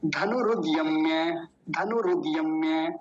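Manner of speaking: धनुरुद यम्य said slowly, the parts joined; slow joined recitation. Shown as a demonstration. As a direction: join धनुरुद यम्य slowly, without a break. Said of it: "अब तीनों को जोड़िए". (धनुरुद यम्य धीरे-धीरे जोड़कर बोलिए)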